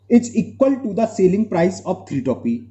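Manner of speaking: each word drawn out slowly for note-taking; slow dictation. Real, not acted. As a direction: read it out slowly so students can write. Teacher dictates question slowly. (धीरे-धीरे बोलकर लिखवाना)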